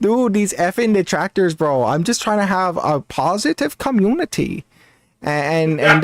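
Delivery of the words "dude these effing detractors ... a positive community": lightly mimicked aggrieved streamer; imitated streamer cadence. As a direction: complain in the streamer's borrowed cadence. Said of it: "the cadence of how he speaks is kinda similar".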